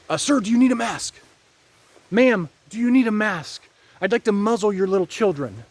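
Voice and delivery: a hint of a creepy official; mocking enforcer. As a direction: lampoon a mask enforcer.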